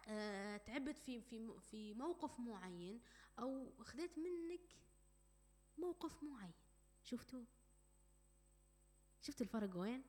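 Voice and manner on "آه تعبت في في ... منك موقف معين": slow, gentle explanation; calm sincere clarity; calm and clear. Shown as a demonstration. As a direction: state the feeling softly. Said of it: "بينما الثانية وضوح".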